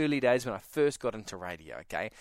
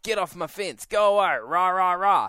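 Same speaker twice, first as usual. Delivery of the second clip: mock territorial growl at the bear; a growly guard dog warning it off, lightly acted; voicing the dog; 3 semitones higher, 4 dB louder than usual. Dog warning bear off its fence, mock growl.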